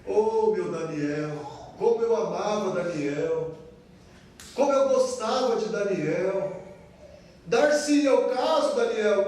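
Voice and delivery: low, soft mourning for a lost friend; grieving king lamenting softly. Acted. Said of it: "deve ter ficado assim, meio que".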